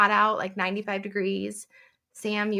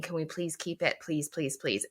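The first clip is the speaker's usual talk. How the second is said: put-on pleading kids; 8 dB quieter than usual. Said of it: "the boys saying".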